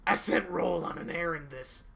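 put-on high, loud squeaky girl voice; man doing a woman's voice, squeaky; little girl voice. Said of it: "here comes my little girl voice".

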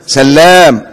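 سلام said as sal-lam with a doubled, stressed L; the mistaken reading سلام, lam held long; سلام with a heavy doubled lam, the error to avoid; wrong doubled lam. Shown as a demonstration. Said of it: "اوعى تغلط وتقول عليه إيه".

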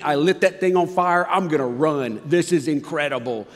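excited. Retold or imitated. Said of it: "It's exciting. It's amazing".

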